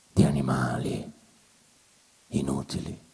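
whisper. Acted. Whispered, fading.

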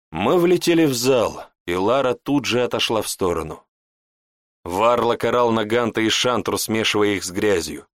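ordinary delivery

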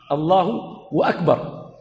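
slow "الله أكبر" with "wa" before "أكبر"; drawn-out "Allahu, wa-akbar" with the hamza sounded; added waw. Shown as a demonstration. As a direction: separate "الله" from "وَأكبر". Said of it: "بالواو مع وجود الهمزة".

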